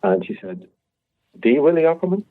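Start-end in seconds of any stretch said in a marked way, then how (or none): 1.3-2.2 higher, louder incredulous question; impressed disbelief. Retold or imitated. Cafe owner checking the chef's famous reference, impressed disbelief. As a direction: retell an awed double-check of a famous name.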